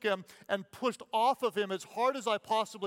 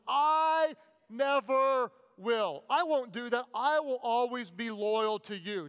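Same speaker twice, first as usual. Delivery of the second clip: emphatic vow; 2 semitones higher than usual. Acted. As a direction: hammer each word of the promise. Peter's vow, shouted.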